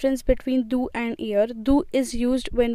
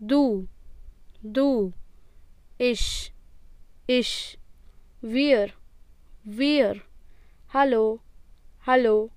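model reading for repetition; slower than usual. Shown as a demonstration. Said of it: "Please repeat after me".

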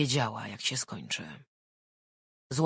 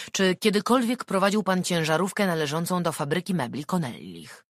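detective voice; 4 semitones higher, 6 dB louder than usual. Acted. Detective questioning.

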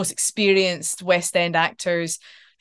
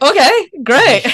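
slow, drawn-out, higher and louder okay great; mock delighted; 8 semitones higher, 9 dB louder, slower than usual. To the casting woman, hammed-up delighted acceptance. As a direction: ham up a stunned delight. Told she must meet Yale.

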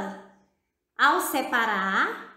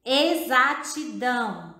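"Exatidão" slowly, syllable by syllable; syllable separation. Shown as a demonstration. Teacher shows children how to separate syllables, slow segmented "Exatidão". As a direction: pull "Exatidão" apart into its syllables. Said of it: "Podemos separar as sílabas também. Observe".

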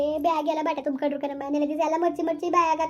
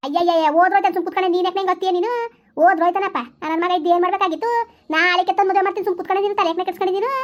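higher, louder impatient telling-off; exasperated scolding; 4 semitones higher, 5 dB louder than usual. Acted. Mother scolding weeping daughter about the runaway husband, loud. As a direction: scold her to stop fretting.

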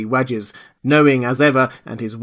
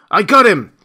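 much higher, louder cry of triumph; triumphant shout; 9 semitones higher, 10 dB louder than usual. Acted. Jaffers grappling his unseen enemy, loud triumphant shout. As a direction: crow it while wrestling. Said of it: "shouted Jaffers".

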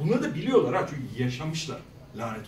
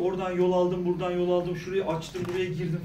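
droning, even-toned list; long-winded recounting. Retold or imitated. Surgeon recounting each step of the operation, long-winded listing. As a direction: imitate someone listing steps on and on. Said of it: "Bu böyle uzun uzun anlatıyor".

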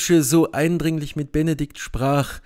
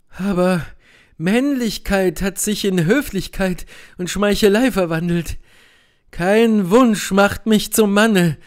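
higher, bitter, scornful noblewoman; indignant Beatrice; 5 semitones higher, 3 dB louder than usual. Acted. Beatrice to Benedikt, urging revenge for Hero: higher, bitter, indignant voice. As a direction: spit out her contempt for cowardly men, voice pitched high.

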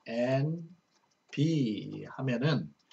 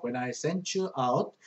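each English word read slowly and clearly; slow verse reading; much slower than usual. Shown as a demonstration. Teacher reading a verse to Korean students, slow and clear.

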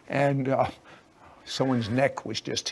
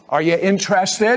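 higher, louder question to a crowd; rousing call; 5 semitones higher, 7 dB louder than usual. Real, not acted. Host asks audience about God's love, rousing call. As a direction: fire up the audience.

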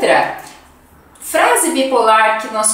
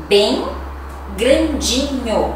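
slow, drawn-out "Bem grandinho"; teacher stretching "grandinho" slowly to show the diminutive; stress on bem grandinho; slower than usual. Shown as a demonstration. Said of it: "usamos o intensificador".

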